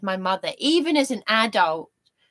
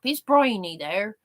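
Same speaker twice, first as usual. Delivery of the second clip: lightly imitated West Country phone caller; a hint of rustic West Country accent; Dave Prowse. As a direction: ask for someone in a slight West Country burr. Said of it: "Dave Prowse used to ring me up".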